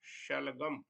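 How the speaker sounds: शलगम with a palatal sh at the start. Shown as a demonstration. Teacher giving an example word, palatal श in शलगम. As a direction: begin शलगम with the tongue on the palate. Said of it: "कुछ इस प्रकार से होगा".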